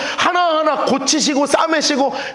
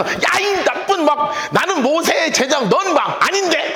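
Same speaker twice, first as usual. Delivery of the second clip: higher-pitched, imitated scolding; mock abusive uproar; 5 semitones higher, slower than usual. Retelling Pharisees cursing the healed man, mock-angry uproar. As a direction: act out their indignant fuss, half in play. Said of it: "막 욕하고 막 난리가 났어".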